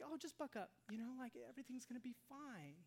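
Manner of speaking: high, light mock consolation; dismissive cheering-up. Mimics dismissive comforter of someone crying.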